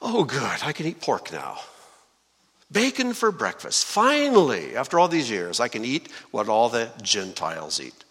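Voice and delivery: lightly mocking glee; mock delight. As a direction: pretend to celebrate a long-awaited treat. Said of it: "He did not jump up and say".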